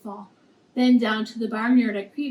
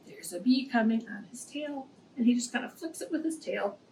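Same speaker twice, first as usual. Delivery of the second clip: hushed gasp; 6 dB quieter than usual. Real, not acted. Pointing out bee to kids.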